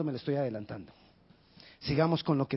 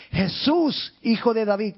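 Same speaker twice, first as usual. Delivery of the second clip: calls out high and loud to Jesus; a blind man's loud plea; crying out; 5 semitones higher, 5 dB louder than usual. Acted. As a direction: shout his name across the crowd. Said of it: "él gritó".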